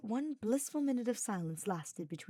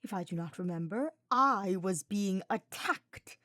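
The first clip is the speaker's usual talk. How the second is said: snarled; 4 dB louder than usual. Acted. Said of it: "Hubert snarled".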